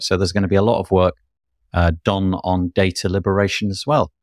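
rushed, breathless rattle-through; out of breath, talking fast. Real, not acted. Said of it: "Again, I'm out of breath".

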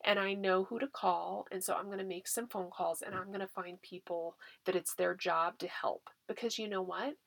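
soft, steady, confident comfort; quietly sure parent reassuring a child; calm reassurance. Shown as a demonstration. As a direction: promise the child you'll handle it. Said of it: "And that".

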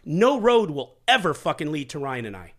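worked-up, pitch up, pushing harder toward the end; heated insistence, not yelling; heated rant. Real, not acted. Poker player defending himself to the host, heated. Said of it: "You're super fucking heated".

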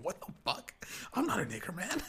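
high-pitched mock indignation; retold outrage. Offended gamer protests to a buddy, mock angry. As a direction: imitate a mad guy protesting. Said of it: "the guy was so mad".

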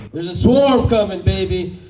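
high, loud hype line; hype announcement. Real, not acted. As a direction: pump up the crowd. Hyping the crowd.

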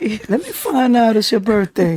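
smooth crooner birthday shout-out voice; impression of a singer. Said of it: "this is a singer".

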